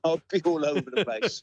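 said through a light real laugh. Real, not acted. Climber joking to interviewer about his emotions, laughing lightly. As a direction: let a chuckle break into the words.

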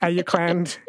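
Ayukland as eye-yuk-land; playfully mangle Ayukland; joking about a robot voice, mock mispronunciation; mock mispronounced Auckland. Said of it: "mispronouncing the English names".

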